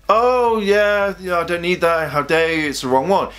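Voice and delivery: mock dismissive. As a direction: imitate someone snubbing a gift. Imagined ungrateful reaction to gift.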